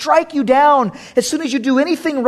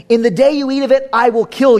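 threatening vengeful God; faster than usual. Shown as a demonstration. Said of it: "Do you hear the difference?".

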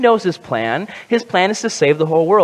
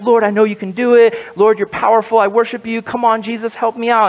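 higher, insistent imitated plea; relentless pleading; 5 semitones higher than usual. Preacher imitating the woman begging Jesus for help, relentless pleading. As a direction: keep begging, lightly acted, without letting up. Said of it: "she's relentless. She won't give up".

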